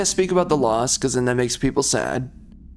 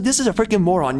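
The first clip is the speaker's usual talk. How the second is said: pitched-up exasperated repeat of the insult; exasperated retort; 5 semitones higher, faster than usual. Retold or imitated. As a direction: blurt it in disbelief at the news. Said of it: "I was like".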